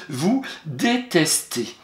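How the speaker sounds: vous détestez said slowly; slow dictation. Shown as a demonstration. Teacher dictating vous détestez slowly to her pupil.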